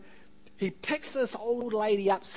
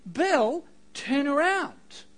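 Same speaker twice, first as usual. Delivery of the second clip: loud, higher, slow call; 8 semitones higher, 8 dB louder, slower than usual. A narrator's reading. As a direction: draw out the final plea. Voice calls a third time.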